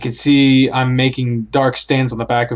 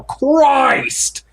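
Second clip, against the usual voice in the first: startled cry. Acted. Startled exclamation.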